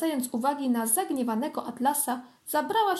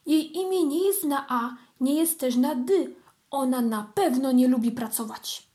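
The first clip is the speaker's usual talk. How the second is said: excited; 4 dB louder than usual. Acted. Kitten rejoicing continues.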